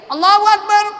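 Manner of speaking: high, ringing relay of the imam's call; muballigh's shouted takbir. Shown as a demonstration. Muballigh relaying the imam to the congregation, high shouted takbir. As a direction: call it out high for the back rows. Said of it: "Ada yang teriak".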